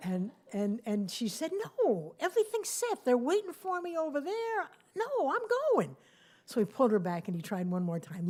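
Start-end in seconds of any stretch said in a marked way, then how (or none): 1.8-6.0 determined refusal. Acted. Harriet refuses to postpone flight.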